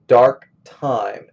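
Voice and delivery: "Dark" and "time" both stressed, "Dark" loud; both words stressed. Shown as a demonstration. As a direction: give "Dark" and "time" each a strong beat. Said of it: "going to stress both of these".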